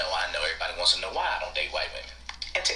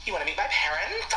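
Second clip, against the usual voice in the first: put-on white girlfriend voice; 12 semitones higher than usual.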